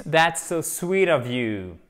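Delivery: "that's so sweet of you" said slowly and carefully; a teacher's slow model sentence; slow model phrase. Shown as a demonstration. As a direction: read it out slowly for learners. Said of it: "expression bonus".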